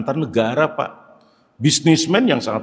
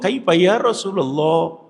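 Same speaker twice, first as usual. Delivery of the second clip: gentle wife asking; 7 semitones higher, slower than usual. Retold or imitated. Khadijah asks the Prophet.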